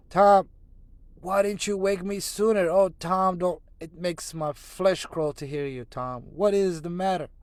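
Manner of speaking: high, loud, scared pleading; frightened pleading. Acted. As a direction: beg the brother to answer, scared. Sid frightened over dying brother.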